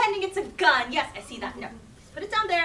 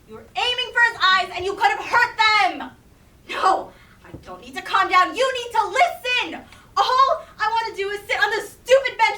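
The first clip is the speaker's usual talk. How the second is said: heated family shouting; 3 semitones higher, 6 dB louder than usual. Acted. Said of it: "sorry for yelling".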